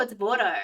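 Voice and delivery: Vorto said as VOR-toh, long or like Vort; correcting the name to Vorto, as in Vort. Shown as a demonstration. Telling chat the name is said Vorto. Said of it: "it's pronounced Vorto".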